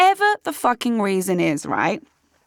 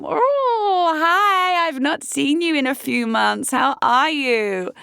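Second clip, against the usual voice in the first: high, drawn-out undead whine; zombie voice; 3 semitones higher, slower than usual. Pretend. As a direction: moan it like a zombie crawling back. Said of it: "do you like my zombie voice?".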